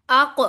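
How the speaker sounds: अक with a bounced final क; अक, last consonant popped loose; qalqala bounce. Shown as a demonstration. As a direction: release the क of अक in a short echo. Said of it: "जिनके ऊपर कलकला करते हैं".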